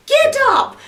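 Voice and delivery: high, loud order; commanding devil. Acted. Devil ordering Jack up, high loud shout. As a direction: shout the command, pitch leaping up.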